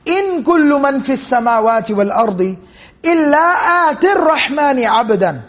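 fast recitation rising to a strong, full-voiced finish; Quran recitation. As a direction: chant the verse with tajweed, building at the end. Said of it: "Allah subhanahu wa ta'ala says".

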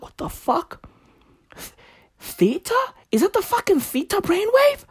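high, hushed, hammed-up astonishment; incredulous, high-pitched retold reaction; mock disbelief. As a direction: act baffled, voice climbing into a question. Acts out stunned reaction to demonstration.

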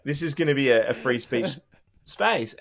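laughing while mocking his free speech line; laughing mockery of a self-styled free speech space. Host mimicked laughing, mocking his free speech claim. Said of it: "you were like the parlor of podcasts".

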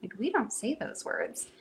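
re-enacted proper mom telling-off; composed mother's scolding. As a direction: gently admonish a small child. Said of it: "in my normal state of mind".

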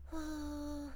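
breathy voiced blow out through the lips; a soft sigh-like blow with some voice in it; voiced exhale. Shown as a demonstration. Teacher demonstrating a voiced breath to students, soft voiced blow. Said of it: "今声出しちゃいましたね".

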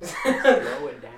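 clumsy slow country accent; attempted country accent. Shown as a demonstration. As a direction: try a country drawl, stretched and loud. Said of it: "I'm willing to try".

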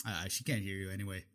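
whisper-soft. Acted. Quiet spying.

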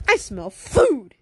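loud, slow, hammed-up dog voice; excited dog sniffing out food; dog character. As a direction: draw out the last word greedily. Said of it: "the dog was like".

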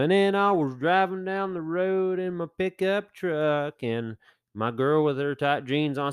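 mock country lyric. Parody of a country song.

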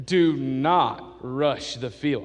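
slow, drawn-out PA voice; mock announcer. Pastor mocking arrogant announcer, slow haughty PA voice. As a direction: stretch it out like a pompous announcer. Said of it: "And he said".

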